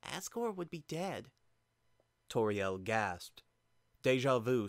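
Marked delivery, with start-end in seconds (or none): 0.0-1.3 solemn. Acted.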